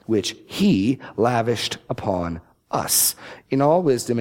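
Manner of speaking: slow reading that leans on every he and him; emphatic scripture reading. Acted. Preacher reading Ephesians one, slow and emphatic. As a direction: read Ephesians deliberately, weighting God's actions. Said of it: "I will be emphasizing the he's and the hims".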